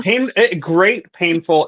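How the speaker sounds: mock pained. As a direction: play along, mock anguish. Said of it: "It's very painful".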